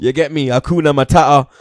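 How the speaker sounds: half-hearted Pumba bit; Pumba impression. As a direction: toss off the line as the cartoon warthog. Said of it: "Man's doing his best Pumba impression".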